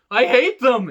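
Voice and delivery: heated quote. Retold or imitated. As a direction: spit out the hate as Jey. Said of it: "Jey is like".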